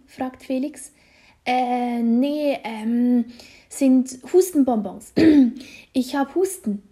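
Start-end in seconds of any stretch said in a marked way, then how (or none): 1.5-6.8 halting, evasive answer with throat-clearing; hemming and hawing; hesitant. A narrator's reading. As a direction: stall awkwardly, hunting for an excuse. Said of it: "antwortet Nick zögerlich".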